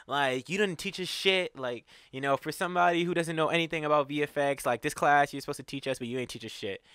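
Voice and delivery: retold outburst, starting high and easing down; angry blow-up. Student blacking on the professor, retold angry blow-up. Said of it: "blacked on Downer".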